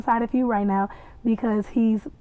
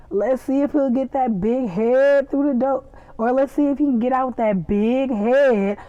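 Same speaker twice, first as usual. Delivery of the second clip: imitated Southern country twang; country Southern accent; 3 semitones higher than usual. Quoting country Louis about the big head, Southern accent. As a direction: lean into a put-on Southern accent. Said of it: "This is country Louis".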